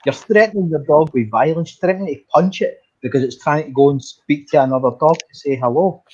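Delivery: sharp high retort, words pushed out; angry retort. Retold or imitated. Woman on the train snapping at the dog owner, angry. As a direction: snap back at him like she's fed up. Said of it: "She went".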